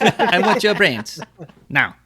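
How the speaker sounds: slow, high monster moan; growling bugbear. Pretend. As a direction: moan it like a hungry zombie. Voicing a hungry zombie.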